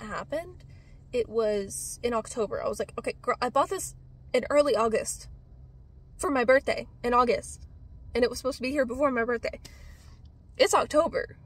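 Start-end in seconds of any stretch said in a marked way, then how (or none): 3.0-11.4 exasperated rant. Retold or imitated. Venting at the seller over late shipping: exasperated rant. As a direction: build from annoyed to fed up. Exasperated about fourth delay.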